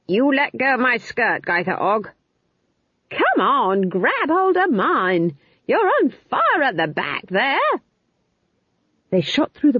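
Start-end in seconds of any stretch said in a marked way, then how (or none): 0.1-2.1 raised voice, ordering her off; sharp acted command; indignant shout. A narrator's reading. Witches quarrelling on flying broomsticks. 3.1-7.6 high-pitched calling across the wind; raised, high acted yell; urgent shout. A narrator's reading. Witch calls across to burning broomstick.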